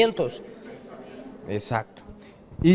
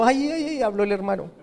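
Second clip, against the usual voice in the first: mock nervous fuss; 4 semitones higher, 4 dB quieter than usual. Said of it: "Jesús no es nervioso".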